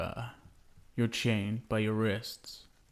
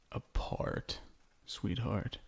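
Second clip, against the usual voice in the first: menacing whisper; 9 dB quieter than usual. Acted. Threatening his captive bride.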